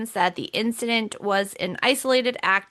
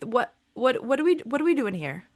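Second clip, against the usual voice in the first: bewildered disbelief; 3 semitones higher, faster than usual. Retold or imitated. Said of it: "And I'm like".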